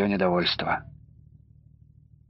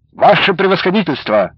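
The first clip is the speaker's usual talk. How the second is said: louder, higher formal report; crisp military report; 6 semitones higher, 5 dB louder than usual. A narrator's reading. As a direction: snap out the address like a report. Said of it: "отрапортовал курьер".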